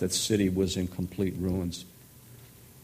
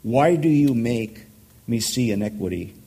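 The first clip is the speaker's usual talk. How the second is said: louder, pleading cry to God; impassioned complaint; 2 semitones higher, 4 dB louder than usual. Acted. Preacher reading the prophet's complaint, loud and pleading. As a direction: voice it like a man shouting at heaven.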